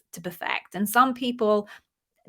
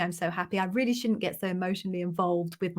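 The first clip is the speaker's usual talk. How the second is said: softer, composed again; calmer, quiet; 6 dB quieter, faster than usual. Real, not acted. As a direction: say it gently, tears settled. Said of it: "I'm a little bit teary".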